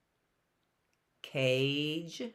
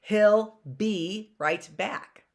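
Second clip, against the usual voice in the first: He'll be right back spoken slowly and a bit louder; slow demo, slightly louder; 3 semitones higher, slower than usual. Shown as a demonstration. Teacher demonstrates the sentence slowly. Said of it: "That's not like a bumblebee".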